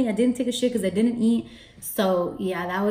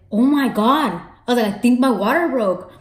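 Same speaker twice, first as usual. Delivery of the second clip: shocked panic; 4 semitones higher, 6 dB louder than usual. Retold or imitated. Realizing her water broke.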